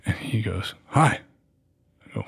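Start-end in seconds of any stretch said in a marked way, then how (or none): 0.9-1.2 light mock of a high little voice; high-pitched guy. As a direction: greet him in a squeaky little voice. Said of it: "a high pitched voice".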